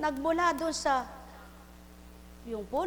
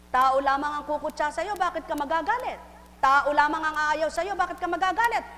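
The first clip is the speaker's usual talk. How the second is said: rising louder and higher with each line; building sermon refrain; 4 semitones higher, 5 dB louder than usual. Acted. Preacher building to a peak, louder and higher.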